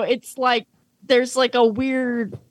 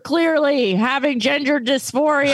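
lightly hammed-up supportive big brother, a little higher; earnest older brother; 4 semitones higher than usual. Big brother gently encouraging Mokuba to accept himself, mock-earnest. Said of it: "'Cause he's like".

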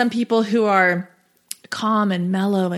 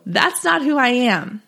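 ordinary talk, nothing marked

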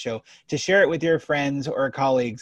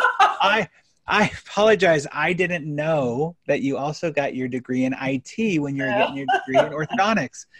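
playfully needling, imitating an apology; mock apology; 3 semitones higher than usual. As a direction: lay on a fake apology with a laugh in it. Retold sarcastic apology to client.

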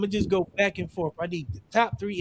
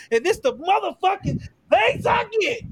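exasperated outburst; 11 semitones higher than usual. Real, not acted. Host complains about accusations.

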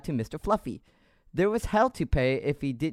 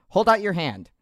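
French Canadian sergeant; 4 semitones higher, 3 dB louder than usual. Acted. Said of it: "with this accent".

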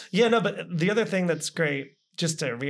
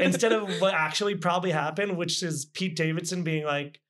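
giggling through the telling; amused, half laughing. Real, not acted. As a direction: laugh while you tell it. Mocking how dating Pete goes.

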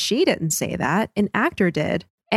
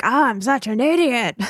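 mildly dramatic self-scolding, higher pitch; self-reproach; 4 semitones higher than usual. Retold or imitated. Podcaster quoting a character's regret at the end, mild self-reproach. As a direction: lightly act out kicking yourself. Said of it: "he's like".

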